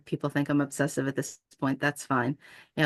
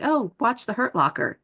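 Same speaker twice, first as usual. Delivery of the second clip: higher-pitched, drawn-out mock suggestion; slow sarcastic recommendation, pitched up; 6 semitones higher than usual. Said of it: "I'll be sarcastic and I'll be like".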